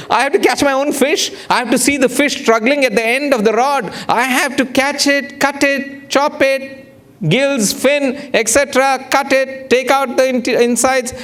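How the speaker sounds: high-pitched, insistent listing; mock horrified outrage. Diner told to catch his own fish, comically appalled. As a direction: hammer out each chore high, in comic horror.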